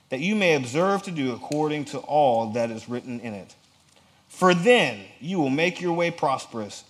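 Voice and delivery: measured, declamatory Bible reading with punched openings; emphatic scripture reading. Acted. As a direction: read it out as a firm command. Reads scripture aloud emphatically.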